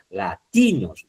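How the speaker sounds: "latinos" with TI stressed and stretched; stress on penultimate syllable. Shown as a demonstration. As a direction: lean on the middle of "latinos", then fall. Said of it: "Usted no dice latinos".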